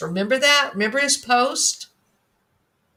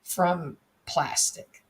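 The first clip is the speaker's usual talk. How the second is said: pompous. Retold or imitated. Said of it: "in this very pompous way".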